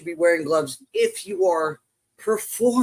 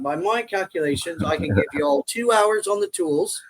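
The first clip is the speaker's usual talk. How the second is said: light mock British accent; put-on British accent; 2 semitones higher than usual. Newcomer to the job site, mock British accent. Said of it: "with the British accent".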